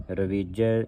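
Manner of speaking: ਰਵੀਜੈ with an open "ai" on the final ਜੈ; double-vowel ending. Shown as a demonstration. Teacher shows the congregation the vowel sign on jajja, open ending on ਰਵੀਜੈ. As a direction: sound the last syllable of ਰਵੀਜੈ as "jai". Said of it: "ਜੱਜੇ ਨੂੰ ਦਲਾਵਾਂ ਲੱਗੀਆਂ".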